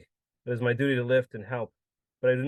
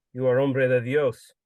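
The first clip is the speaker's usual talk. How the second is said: put-on drunk insisting; 6 dB louder, slower than usual. Drunk insisting, louder and slow.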